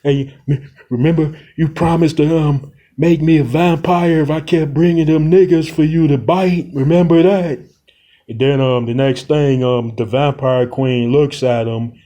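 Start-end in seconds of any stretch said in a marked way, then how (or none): 0.0-7.6 lightly voiced sinister friend, quicker; a hint of a scheming villain. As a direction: remind her of the deal with a creepy edge. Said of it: "then he says".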